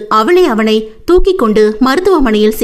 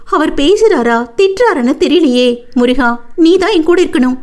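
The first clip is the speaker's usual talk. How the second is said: put-on higher-pitched worried young employee; fretful grumbling, pitched up; anxious lamenting; 3 semitones higher than usual.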